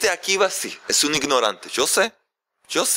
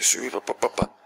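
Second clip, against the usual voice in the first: mock pompous babble; 2 semitones lower, 4 dB quieter than usual. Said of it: "haciéndose".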